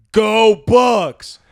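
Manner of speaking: high, full-force cheer; yelled taunt. Retold or imitated. Delivery driver to homeowner in his garage, yelled taunt. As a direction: bellow it like a rival fan across the street. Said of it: "I yell it and I say".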